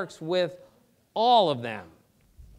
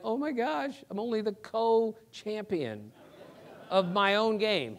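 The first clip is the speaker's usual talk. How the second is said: higher-pitched imitation of an upset competitor; mock dismay; 6 semitones higher than usual. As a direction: play up the comic distress of a dethroned champion. Voicing Ripken's dismay at tying.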